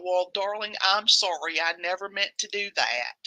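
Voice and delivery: put-on Southern accent. Mocking a celebrity's sugary Southern apology. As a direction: sweet-talk like a Southern belle. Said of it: "You love my Southern accents?".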